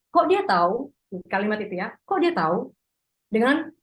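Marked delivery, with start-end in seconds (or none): 0.1-0.9 "Kok dia tahu?" pitched higher with a rising end; puzzled question. Shown as a demonstration. Teacher demonstrating kok question, surprised rise. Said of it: "seperti tanya". 2.0-2.7 puzzled question. Shown as a demonstration. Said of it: "seperti tanya".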